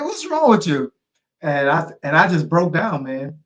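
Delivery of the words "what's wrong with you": repeating the friend. Retold or imitated. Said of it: "it's like".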